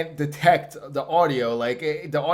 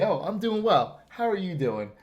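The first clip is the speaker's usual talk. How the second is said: higher-pitched polite reply, dropping back for the question; mock polite; 5 semitones higher than usual. Shown as a demonstration. Host shows guest how polite people answer, mock polite. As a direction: model good manners for a friend. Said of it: "polite people say".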